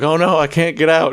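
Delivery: hammed-up helpless cry; mock damsel in distress. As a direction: squeal it like a stuck victim. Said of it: "they're like".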